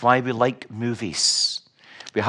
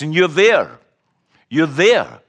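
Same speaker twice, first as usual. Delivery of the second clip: emphatic; 3 semitones higher, 6 dB louder than usual. Real, not acted. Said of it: "preacher's emphasis".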